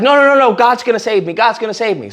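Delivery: mildly insistent retold refusal; mock refusal. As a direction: wave off the rescuers in a joke retelling. Stubborn refusal in retold joke.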